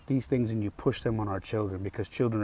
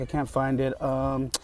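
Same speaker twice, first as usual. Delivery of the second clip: higher, mimicking a teacher who jokes it off; mock amused teacher; 4 semitones higher, 3 dB louder than usual. Teacher joking to kids about the missing flag, mock amused. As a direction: imitate her joking, voice lifted, no real laugh. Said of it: "And she's laughing. She's like".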